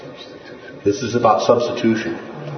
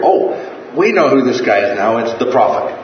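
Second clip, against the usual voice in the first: higher, louder imitation of a know-it-all crowd; mock crowd certainty; 4 semitones higher, 4 dB louder than usual. Preacher voicing the crowd that hears Jesus, mock sudden certainty. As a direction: blurt it out as the convinced crowd, starting high.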